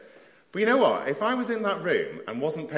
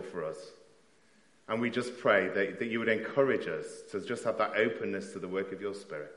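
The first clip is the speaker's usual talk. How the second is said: prayer. Acted. Leads congregation in prayer.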